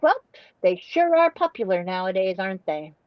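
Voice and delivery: put-on a drawled, sly little old lady aside, fading out; imitating old lady Brenda. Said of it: "it was just the way she said".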